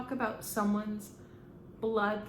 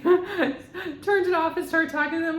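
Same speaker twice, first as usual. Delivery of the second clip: higher, louder, through a laugh; 8 semitones higher, 8 dB louder than usual. Real, not acted. Medium recalls stopping the film to talk, laughing. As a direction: laugh your way into the story. Amused retelling of her reaction.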